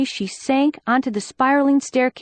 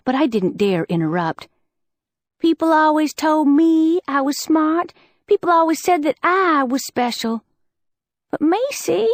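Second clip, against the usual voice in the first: voice cracking; 5 semitones higher than usual. Acted. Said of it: "Liz's voice cracked".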